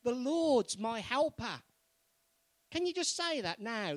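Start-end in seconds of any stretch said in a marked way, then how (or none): 0.0-1.6 loud, higher, slow and sure; confident declaration. Shown as a demonstration. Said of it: "Say it with confidence".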